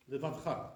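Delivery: Levavcha in three syllables, le-vav-cha; no vowel between v and ch in Levavcha; dropped sheva. Shown as a demonstration. Teacher showing the mistake, Levavcha with dropped sheva. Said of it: "That's not really correct".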